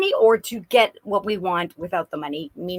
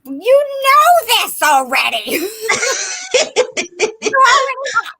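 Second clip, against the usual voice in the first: grandma voice; 12 semitones higher, 6 dB louder than usual. Acted. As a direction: croon it like a wise old grandma, chuckling. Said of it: "I feel like a grandma".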